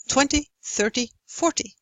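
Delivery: first syllables of "Twenty", "thirty", "forty" on an even beat; three stressed beats. Shown as a demonstration. Lecturer gives rhythm example, "Twenty, thirty, forty" as three stressed beats. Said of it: "three stressed syllables".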